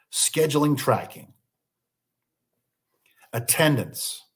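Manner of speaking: measured list with long pauses between items; deliberate, spaced-out dictation. Real, not acted. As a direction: leave room after each item to write it down. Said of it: "I'll speak even a little slower".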